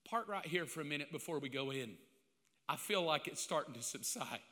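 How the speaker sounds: quoting the wife with a migraine; wife with a migraine, quiet request; quiet wife's request. Retold or imitated. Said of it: "Her exact words".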